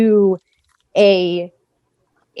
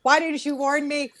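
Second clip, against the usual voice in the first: high, drawn-out protest at an unwanted sight; appalled, high-pitched wail of refusal; mock-outraged dismay; 6 semitones higher, slower than usual. Real, not acted. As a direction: recoil and protest, pitch climbing on each no. Shown a picture she finds gross.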